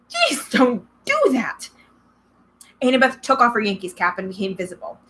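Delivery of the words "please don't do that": whisper. Acted. Startled boy, hidden girl near.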